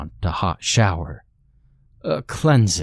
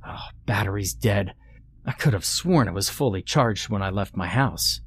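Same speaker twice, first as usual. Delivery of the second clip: softer, half-whispered grumble; irritated hiss; 6 dB quieter than usual. Acted. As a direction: hiss it under your breath, annoyed. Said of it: "hissed in irritation".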